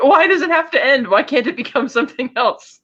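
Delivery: high, whiny imitation of heartbreak; mock crying. Happy after the breakup, mock tearful pleading. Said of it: "He's kinda crying in the hallway".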